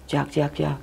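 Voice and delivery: soft little chirps; imitated chick cry. Retelling what was heard inside the tent, imitated chick cry. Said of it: "kedengaran suara kayak ayam".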